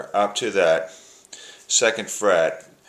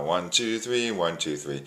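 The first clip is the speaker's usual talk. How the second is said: steady waltz count, leaning on each beat; slow waltz count; 3 dB quieter than usual. Shown as a demonstration. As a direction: count slowly in three, lilting. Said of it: "which is slow".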